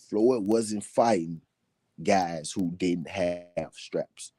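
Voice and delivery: slow, deliberate, broken into chunks; slowed right down to make the point; slow repeat. Shown as a demonstration. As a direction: spell it out slowly, pausing between phrases. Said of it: "I'ma say that again slow".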